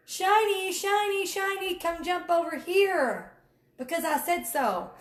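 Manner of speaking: lightly hammed-up imitation of a pushy recruiter; mocking recruiter lure. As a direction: dangle it like a shiny toy. Mocking recruiters luring people over.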